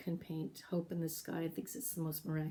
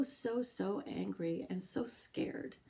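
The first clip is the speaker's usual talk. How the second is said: ordinary talk, nothing marked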